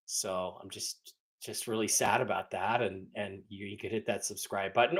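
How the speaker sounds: low, soft mock-sad pity plea; put-on sulk, trailing down low; mock hurt. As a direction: play wounded and sorry for yourself, quietly. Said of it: "I am just kinda teasing you guys".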